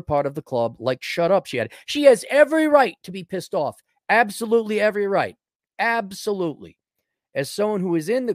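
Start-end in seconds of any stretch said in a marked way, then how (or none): 1.9-6.8 sarcastic agreement. Pretend.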